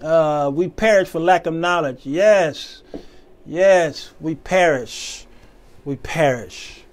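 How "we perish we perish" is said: solemn lament. Real, not acted. Sermon lament, fading.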